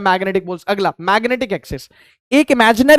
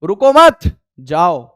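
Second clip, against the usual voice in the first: रुको मत run together, raised and loud, then जाओ dropped low after a pause; 4 semitones lower, 7 dB louder, slower than usual. Shown as a demonstration. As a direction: comma break between मत and जाओ. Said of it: "जैसे मैं बोलूं".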